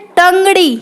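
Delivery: टंगड़ी with tongue touching the roof of the mouth; touch the tongue above the palate for ट in टंगड़ी; retroflex ट demo. Shown as a demonstration. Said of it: "जीभ touch होकर जाती है मूर्धा पे".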